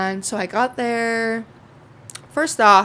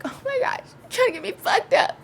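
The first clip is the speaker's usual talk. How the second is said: mock whine. Mock-crying at more beer.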